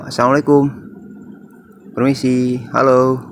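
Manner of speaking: calling out loudly into house; shouting over wind. Real, not acted. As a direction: call out the greeting. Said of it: "angin tuh berhembusnya kenceng banget". (berteriak melawan angin)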